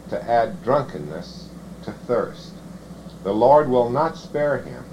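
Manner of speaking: measured, formal Bible reading; scripture reading. Acted. Preacher reading the covenant curses to the congregation, formal scripture reading. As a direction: read it out in steady, solemn phrases.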